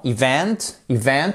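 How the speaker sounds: "event" with VENT stressed, rising; e-VENT, weight on the second syllable. Shown as a demonstration. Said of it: "vous avez votre accent tonique sur la seconde syllabe".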